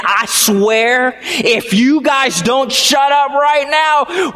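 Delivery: mock angry father yelling at the kids; angry dad. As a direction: snap it like a furious dad in the car. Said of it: "he got so mad".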